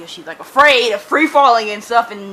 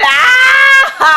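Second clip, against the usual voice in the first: high, loud, drawn-out scream; shocked scream; 12 semitones higher, 5 dB louder than usual. Real, not acted. Reader reacting as Lucian turns up, shocked scream. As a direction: scream at the sudden reveal.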